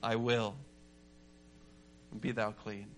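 low, soft answer to a leper; understated, hushed pronouncement; lightly voiced Jesus. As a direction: say it quietly and low, with pauses. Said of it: "Jesus turns to the leper and says".

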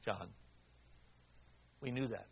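gentle quiet reply from the mother; very softly. Retold or imitated. Mother answers her son softly from the front seat. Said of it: "And she said very softly".

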